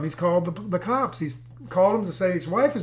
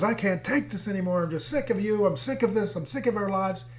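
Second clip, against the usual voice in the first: mock weary complaint, pitched up; fed-up wife; 3 semitones higher than usual. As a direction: act out a wife who's had enough. Wife's complaint acted out in story.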